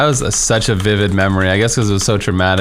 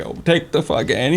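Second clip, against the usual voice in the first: mock panicked high yelp at a bystander; freaking out; 6 semitones higher, 4 dB quieter than usual. Store clerk panicking over a bleeding child, high frantic yelp. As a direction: imitate a flustered clerk losing it. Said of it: "He was, like, freaking out".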